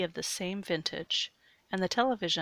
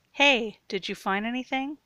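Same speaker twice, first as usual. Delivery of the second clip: raised, higher call; 5 semitones higher, 7 dB louder than usual. A narrator's reading. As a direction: call down the stairs to someone out of sight. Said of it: "he called down".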